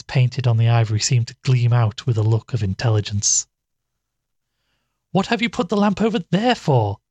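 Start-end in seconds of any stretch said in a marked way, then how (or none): 5.1-7.0 higher, impatient demand. Acted. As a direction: let her patience snap a little. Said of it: "with more of impatience than her voice usually revealed".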